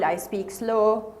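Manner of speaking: drawn out very slowly to match the words. Shown as a demonstration. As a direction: act out speaking slow. Example sentence said slowly.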